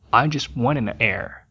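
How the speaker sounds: frase devagar e mais baixa; lento e baixo. Shown as a demonstration. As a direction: diga cada ligação com calma. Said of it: "juntando as duas palavras". (demonstração lenta e baixa)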